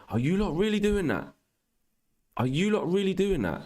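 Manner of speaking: high-pitched, disbelieving question; incredulous. Real, not acted. Streamer to chat that backs the troll, incredulous. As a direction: squeal it in disbelief at normal volume. Streamer disputes chat's claim about his voice.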